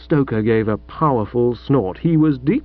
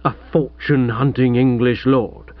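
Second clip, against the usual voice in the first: Chuffy throws "a fortune-hunting English lord" back in a put-on indignant voice; offended lord. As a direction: repeat the insult in wounded disbelief. Chuffy echoes the insult, offended.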